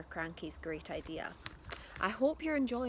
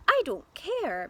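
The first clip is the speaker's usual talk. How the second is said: firm mum; 7 semitones higher, 7 dB louder than usual. A narrator's reading. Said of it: "Missus Cranky said".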